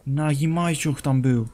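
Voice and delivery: ordinary talk, nothing marked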